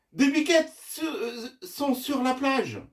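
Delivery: high-pitched, halting astonishment; stammering in surprise. Acted. Madame Godway reports the goats by phone, stammering in surprise. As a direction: stumble over the words, startled. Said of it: "en bégayant de surprise".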